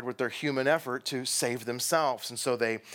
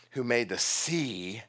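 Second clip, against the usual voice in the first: "sea" stressed and held; emphasis on SEA; slower than usual. Retold or imitated. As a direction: lean on the word "sea" and let it stretch. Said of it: "But Jonah puts emphasis on the word sea".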